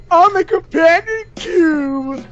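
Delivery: mocking. Mocking friend's earlier hint.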